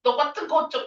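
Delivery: hammed-up angry girlfriend, pitch flying up; bad way to argue. Shown as a demonstration. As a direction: girlfriend snapping in a mock tantrum. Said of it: "이러시면 안 돼요".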